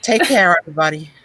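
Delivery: a touch of fed-up pharmacist ranting; Angela impression. Imitating Angela ranting about old customers, mildly hammed-up. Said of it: "That was Angela".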